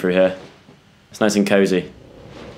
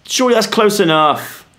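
exasperated; 10 semitones higher than usual. Real, not acted. Frustrated at game puzzle.

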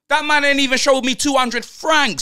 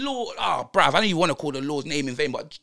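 disbelieving outburst. Retold or imitated. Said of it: "I'm thinking".

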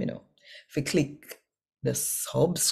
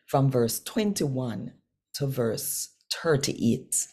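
scripture reading; 3 semitones higher than usual. Acted. Reads scripture aloud in Patois.

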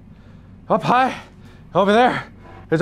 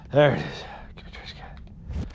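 whispering; 6 semitones lower, 10 dB quieter than usual. Real, not acted. Hunting quietly in game.

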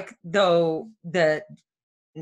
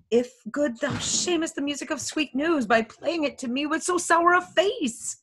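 urgent, higher-pitched reproach; impatient pleading; 6 semitones higher than usual. Acted. Juliet begs her stalling nurse for news, impatient pleading.

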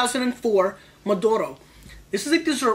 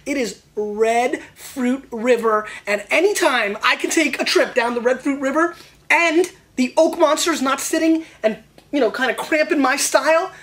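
builds from slow and drawn out into higher, louder raving about the red fruit river; excited gush; 4 semitones higher, 5 dB louder than usual. Real, not acted. Wine reviewer raving to viewers about red fruit, excited and louder. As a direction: get carried away by the wine.

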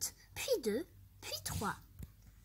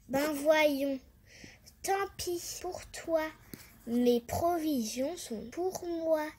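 mocking ant; 2 semitones higher than usual. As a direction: rub it in, teasing.

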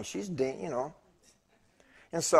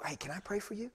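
quick; 5 semitones higher, 13 dB quieter than usual. Retold or imitated. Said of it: "And I went real qu".

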